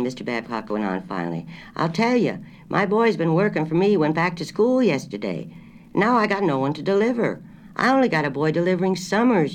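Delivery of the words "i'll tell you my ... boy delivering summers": high, loud country grocer straining to hear; a country shopkeeper on a bad line; rustic grocer. A narrator's reading. Grocer asking her to repeat, high and loud.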